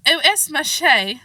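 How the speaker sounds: put-on slow, careful French with a mild English accent; halting schoolgirl French. A narrator's reading. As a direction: spell out the French phrase slowly. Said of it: "So she began with".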